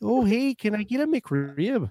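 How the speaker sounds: botched Midwestern accent. Mocking the other speaker's family from the Midwest, in a bad Midwestern accent. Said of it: "they're from the Midwest".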